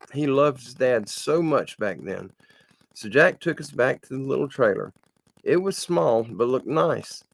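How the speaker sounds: reading a written story aloud; read-aloud storytelling with measured phrasing; story narration. A narrator's reading. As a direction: tell it as a homespun story, evenly. Reads submitted story aloud.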